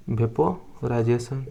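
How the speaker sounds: वेपोराइजेशन stretched slowly, syllable by syllable; slow drawn-out term. Shown as a demonstration. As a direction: spell out वेपोराइजेशन slowly for students to write.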